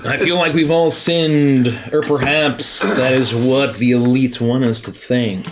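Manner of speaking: slow, drawn-out musing in character; low, deliberate conspiracy musing; pondering character. Acted. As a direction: ponder it slowly and solemnly. Player muses in character.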